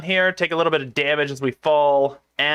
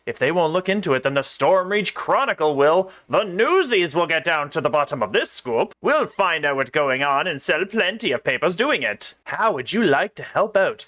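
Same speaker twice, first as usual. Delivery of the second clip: lightly voiced southern reporter; a touch of gruff southern newsy. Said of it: "gruff newsy".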